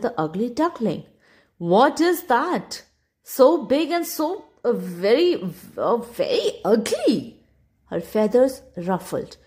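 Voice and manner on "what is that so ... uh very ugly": disdainful. Acted. Spanish duck disgusted.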